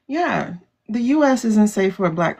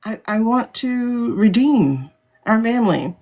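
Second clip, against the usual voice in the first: high, louder, quick model confession; earnest mock pledge; 5 semitones higher, 4 dB louder than usual. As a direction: voice what they should say. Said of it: "own it and say".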